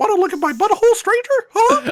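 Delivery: squeaky, very high voice. Asked which voice would be best for the joke, doing a Mickey Mouse voice. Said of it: "surprised I was capable of reaching that that pitch".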